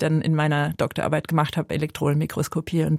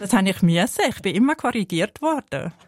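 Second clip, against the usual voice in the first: Valais Swiss German. Shown as a demonstration. Demonstrating the Valais dialect she learned.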